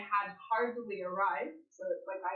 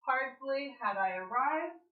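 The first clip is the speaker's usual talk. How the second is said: slow, raised emphatic HARDLY had I arrived; deliberate, higher-pitched example sentence; emphatic inversion; 4 semitones higher, 6 dB louder, slower than usual. Shown as a demonstration. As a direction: draw out "Hardly had I arrived", ending on a rise. Teacher models emphatic inversion example.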